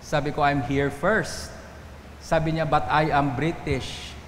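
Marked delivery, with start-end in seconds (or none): 0.5-1.5 slow, deliberate insistence; firm, slow retort. Retold or imitated. Pastor retells standing up to foreigner. 2.7-4.1 slow, mock-haughty foreigner. Pastor imitates the entitled foreigner.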